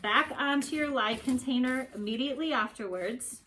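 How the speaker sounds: muffled behind a respirator mask; through a respirator. Real, not acted. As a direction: speak through a mask covering your mouth. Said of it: "take off my respirator and my glasses".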